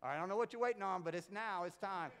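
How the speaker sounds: halftime pep talk. Retold or imitated. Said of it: "I gave an even better speech at halftime".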